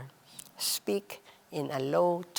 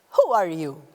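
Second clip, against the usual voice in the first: loud, harsh question; demanding who are you loudly; 2 semitones lower, 6 dB louder than usual. Shown as a demonstration. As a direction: bark the question at them. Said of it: "there is a difference between saying".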